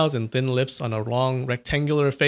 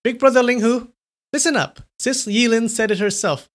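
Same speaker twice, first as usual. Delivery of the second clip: raised voice; 9 semitones higher than usual. A narrator's reading. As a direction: raise the voice to tease. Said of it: "suddenly raised her voice again".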